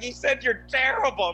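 loud, high, slow laughing shout; mock shriek of delight, drawn out; imitated hysterical laughing. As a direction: act out mom howling with laughter as she talks. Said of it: "she just lost her mind laughing".

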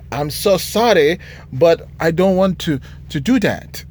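a lightly voiced apologetic worker, a bit slowed; hint of a sheepish worker turning down retraining; mock meek factory worker. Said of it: "I shouldn't do that in voice".

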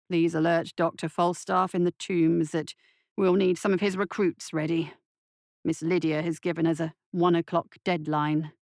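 lightly voiced doctor, a little low; measured, businesslike instruction; composed doctor. Doctor giving orders to his orderly, composed.

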